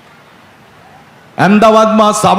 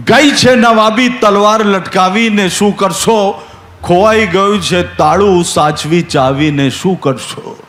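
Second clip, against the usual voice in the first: slow recited couplet; slower than usual. Acted.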